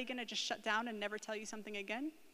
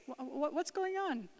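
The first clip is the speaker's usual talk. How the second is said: higher, slow inquiring parent; curious; 4 semitones higher than usual. Acted.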